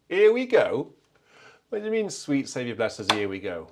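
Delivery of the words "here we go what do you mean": high, loud, puzzled repeat of the title; like you can't believe what you just read; baffled surprise. Real, not acted.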